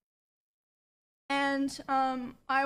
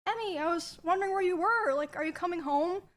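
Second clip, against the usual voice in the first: higher, quicker, sugary innocent act; fake sweet tone; 4 semitones higher than usual. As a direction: switch to a falsely friendly voice, like nothing happened. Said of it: "deflated and changed his tone".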